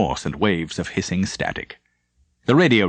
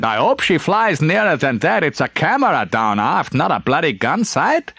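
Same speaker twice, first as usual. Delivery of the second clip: Leitner's lines pitched up; higher voiced Leitner; 7 semitones higher than usual. A narrator's reading. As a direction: lift the voice for Leitner's complaint. Leitner quoted in narration.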